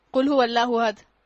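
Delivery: قل misread as kul in a slow, loud recitation; k for qaf. Shown as a demonstration. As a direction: recite slowly, starting قل with a plain k. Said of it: "کھائیے، اللہ ایک ہے".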